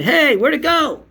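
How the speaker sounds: squeaky mock amazement; imitating the filmer. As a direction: mimic his fake amazement. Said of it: "this is what he did".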